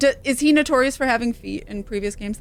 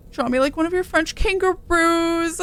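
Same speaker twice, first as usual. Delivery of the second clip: laughing; 8 semitones higher than usual. Pretend. Joking movie quote, laughing.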